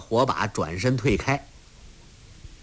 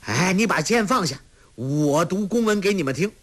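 nervous call; 7 semitones higher than usual. A narrator's reading. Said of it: "叫道".

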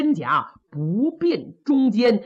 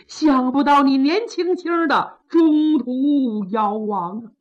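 mournful lament. Acted. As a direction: mourn the brother-in-law at the coffin, with a touch of a sob. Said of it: "看着棺椁是放声痛哭".

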